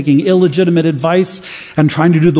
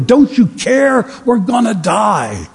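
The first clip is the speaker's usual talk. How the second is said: mock panicked cry; 8 semitones higher than usual. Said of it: "they shout at him".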